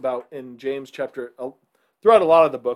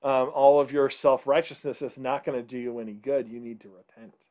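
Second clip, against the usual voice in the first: sarcastic. Retold or imitated. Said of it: "almost being kind of sarcastic".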